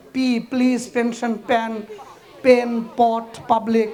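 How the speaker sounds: "পি, প্লিজ, পেন, পট" with the everyday Bangladeshi p. Shown as a demonstration. Teacher imitating local mistake, Bangladeshi p in "পি". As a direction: say the p of "পাবলিক" the local way. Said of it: "বাংলাদেশিরা পি বলে".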